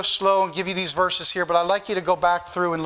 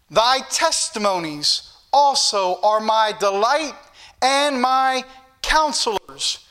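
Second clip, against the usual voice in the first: slow declamation, each phrase drawn out; measured, emphatic Bible reading; scripture reading; slower than usual. Real, not acted. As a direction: proclaim the verse slowly from the pulpit. Reads scripture to congregation.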